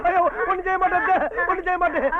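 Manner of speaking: theatrical pleading; mock wailing. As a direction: wail over a relative with fake devotion. Sudden show of devotion to mother-in-law.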